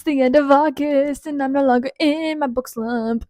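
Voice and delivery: gush, over the moon with excitement; very excited. Real, not acted. Vlogger greeting viewers with her reading wrap-up, very excited. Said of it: "Can you tell I'm very excited".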